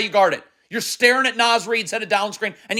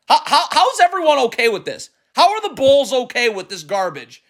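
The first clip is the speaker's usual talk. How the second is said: incredulous, fed-up outburst; exasperated; 3 semitones higher than usual. Real, not acted. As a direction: demand an answer, pitch jumping up. Exasperated rant at the coach.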